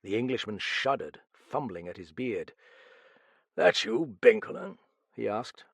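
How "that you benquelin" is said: uneasy query. A narrator's reading. Englishman entering the shadowy room to find his friend, uneasy. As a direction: call out to check who is there.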